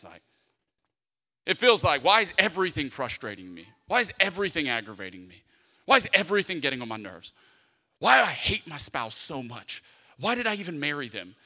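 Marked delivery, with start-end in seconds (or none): 2.0-11.4 mildly exasperated run of complaints, lower pitch; frustrated. Acted. Voicing someone robbed of peace, mildly frustrated. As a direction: grumble it with a touch of frustration. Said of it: "You ever get that frustrated".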